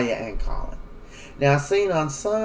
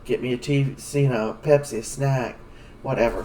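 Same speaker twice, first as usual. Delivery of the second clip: lazy casual dude; 2 semitones lower than usual. Pretend. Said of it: "sitting up talking to people like".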